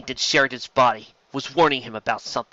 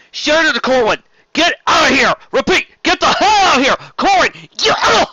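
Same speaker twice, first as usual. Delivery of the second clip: high, loud desperate orders; captain shouting down the comm link mid-fight; urgent shout; 10 dB louder than usual. Acted. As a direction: scream into the link to flee. Sheridan orders ship to flee.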